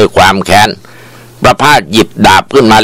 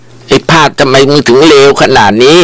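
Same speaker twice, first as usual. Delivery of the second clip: higher, pleading accusation; anguished cry; 6 semitones higher than usual. A narrator's reading. Wife cries out at the attacker, higher anguish. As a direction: ask why through anguish. Wan crying out at Prapas.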